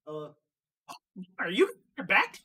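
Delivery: put-on light up a kid with the voice; cartoon voice. Cashier greeting a kid in a character voice. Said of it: "switch into my voice".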